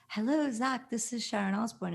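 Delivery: a hint of a proper mom's phone greeting; Sharon Osbourne. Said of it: "British proper voice".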